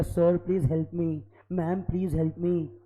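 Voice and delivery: slow, mock-pleading student voice; a lightly acted needy student asking for help; begging student. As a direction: plead with teacher, dragging it out. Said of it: "ऐसा कोई बोलेगा".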